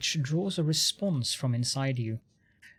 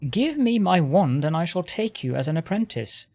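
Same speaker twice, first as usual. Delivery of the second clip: irritated lich. Acted. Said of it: "The Lich exclaims in irritation".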